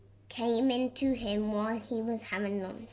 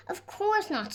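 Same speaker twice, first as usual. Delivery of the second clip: cheerful reply; 9 semitones higher than usual. A narrator's reading.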